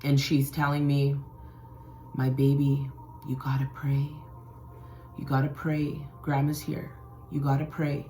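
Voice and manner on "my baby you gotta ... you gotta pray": grandma's voice. Retold or imitated. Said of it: "I can hear her voice".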